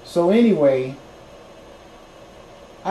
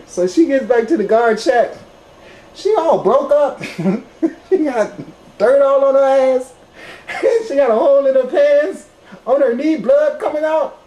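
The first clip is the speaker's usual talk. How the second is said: high, louder, breaking into laughter; can't hold back giggles telling it; laughing while telling; 9 semitones higher, 5 dB louder than usual. Real, not acted. Laughing while describing injured girlfriend.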